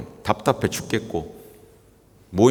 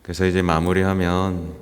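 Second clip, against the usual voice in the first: ordinary delivery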